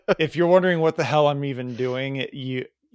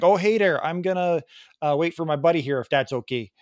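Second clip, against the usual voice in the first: put-on Wisconsin accent; 4 semitones higher than usual. Man at registration waiting for buddy, imitated Wisconsin accent. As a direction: greet like a folksy Wisconsin guy. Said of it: "the Wisconsin guy".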